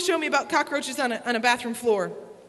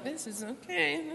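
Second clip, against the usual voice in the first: self-soothing hush; 11 dB quieter, slower than usual. Retold or imitated. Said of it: "I'm like".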